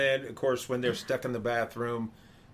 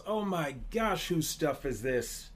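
mild mock yell; 4 semitones higher than usual. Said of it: "the speaker yells".

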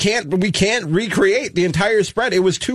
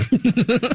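uneasy little laugh; a nervous giggle; 5 semitones higher than usual. Real, not acted. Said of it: "That's a nervous laugh if I've ever heard one".

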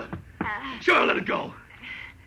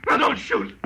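higher, loud, breathless begging; scared pleading at gunpoint; panicked plea; 13 semitones higher, 5 dB louder, slower than usual. Acted. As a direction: drop the gun fast, terrified. Killer begs at gunpoint.

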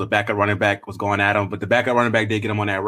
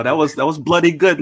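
higher, laughing mock-British accent; 6 semitones higher, 4 dB louder than usual. Shown as a demonstration. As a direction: have a go at British, amused. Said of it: "Can you guys do a British accent?".

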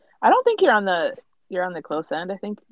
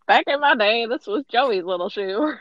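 higher-pitched mock grandma voice; old-timer reminiscing; 6 semitones higher than usual. Teasing her as a grandma with shoes, mock nostalgic. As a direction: reminisce like an old granny, hammed up.

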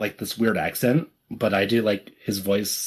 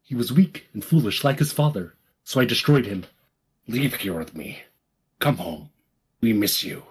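Kylo Ren voice. Acted. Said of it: "my Kylo is a lower".

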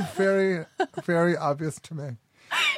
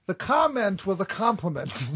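angry Southern preacher; 4 semitones higher than usual. Real, not acted. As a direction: hammer each phrase like an indignant preacher. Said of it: "talking like an angry Southern preacher".

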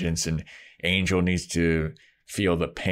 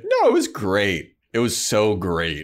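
lightly acted insincere praise; mock derisive reassurance; 3 semitones higher, 3 dB louder than usual. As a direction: imitate a jerk making fun of her. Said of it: "he just laughs in her face".

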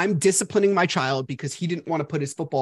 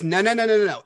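emphatic no; 4 semitones higher, 3 dB louder, faster than usual. Retold or imitated. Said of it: "And Brittany goes".

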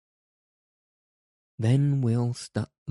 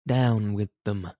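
angry bull bellow. Acted. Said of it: "bellowed the sheriff, in a voice like an angry bull".

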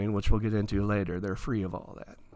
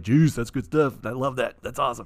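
delighted listener; 7 dB louder than usual. Retold or imitated. Imagined listener loving the word juice, delighted. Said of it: "and you're like".

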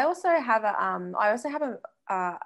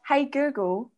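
slow, raised-pitch command to a smart speaker; higher, deliberate voice-assistant command; talking to Google; 6 semitones higher, 4 dB louder, slower than usual. Retold or imitated. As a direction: spell it out slowly for the device. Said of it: "you're like".

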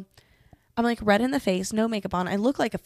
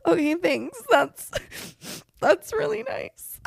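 high, halting mock-weepy gratitude; tearful thanks; 10 semitones higher than usual. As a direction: act out thanking someone while breaking into tears. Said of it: "And I just started crying".

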